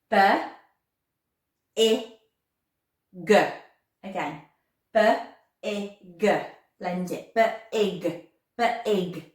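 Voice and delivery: letter sounds spoken one by one; sounding out words. Shown as a demonstration. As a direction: segment each sound loudly. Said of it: "Say it with me".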